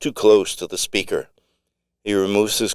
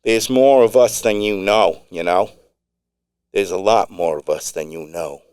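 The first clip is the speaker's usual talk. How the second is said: put-on Long Island accent. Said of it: "with a distinct Long Island accent".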